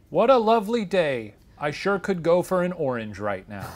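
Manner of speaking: bright-pitched, punchy Southern greeting; Southern accent. Acted. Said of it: "I'll do a Southern accent instead".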